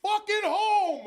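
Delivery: slow, loud, high "Fucking home!"; drawn-out yell. Retold or imitated. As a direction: yell it back over your shoulder, dragging each word. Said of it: "like that".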